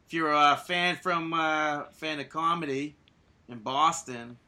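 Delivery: put-on a light Boston accent on "fan of comedy". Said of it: "a good accent from Boston".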